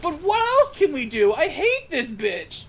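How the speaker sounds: fed-up whine, drag the last words; mock exasperated parent. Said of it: "And they're like".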